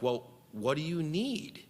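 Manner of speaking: a touch of retold frustration, stretched out slowly; mild exasperation. Retold exasperation at moving demands.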